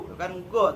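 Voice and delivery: "go" said with a plain hard g, as the mistake; plain g on "go" to show the error; wrong go again. Shown as a demonstration. ("go" dengan g biasa, salah)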